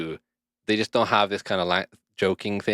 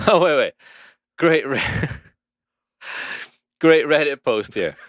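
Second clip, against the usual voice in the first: higher, louder excited "wait, wait"; excited find; 6 semitones higher, 4 dB louder than usual. Real, not acted. Reading search results to his friend, excited. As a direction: burst in, thrilled by what he found. Excited discovery while googling.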